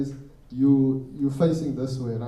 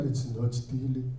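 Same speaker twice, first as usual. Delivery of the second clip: calm denial; 3 semitones lower, 7 dB quieter than usual. Retold or imitated. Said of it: "My cousin was like".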